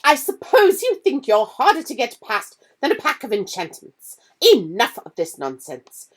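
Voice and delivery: furious teacher laying down the law; losing her temper. Acted. McGonagall catching the boys again, angry and loud. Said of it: "this time she lost her temper".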